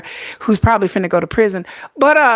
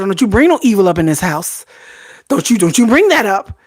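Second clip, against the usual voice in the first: mock scolding. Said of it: "I told my daughter".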